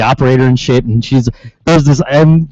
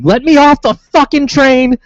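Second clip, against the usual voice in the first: high, slow mock yell at the train crew; hammed-up screaming passenger; retold scream; 10 semitones higher, slower than usual. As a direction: shriek it, stretched out and furious. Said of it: "she's, like, screaming".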